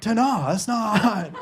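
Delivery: slow, underwhelmed TA-DA; unimpressed echo. Retold or imitated. Girlfriend not won over by his reveal, unimpressed TA-DA. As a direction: repeat TA-DA slowly, without the fanfare. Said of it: "that's not really doing it for me".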